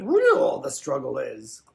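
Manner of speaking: slow, inverted Yoda phrasing. Pretend. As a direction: drawl it out like Yoda. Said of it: "Aaron showed me this shirt".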